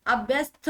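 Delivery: अभ्यस्त ending in a breathy थ; aspirated wrong ending. Shown as a demonstration. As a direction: say अभ्यस्त with थ for the final त. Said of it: "नहीं". (अभ्यस्त के अंत में थ)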